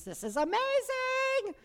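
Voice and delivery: high, slow marveling cry; excited quote. Retold or imitated. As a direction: gasp it out in wonder. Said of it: "and I was like".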